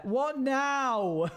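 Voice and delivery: high startled question; suddenly confused; surprised. Real, not acted. Surprised at the gap.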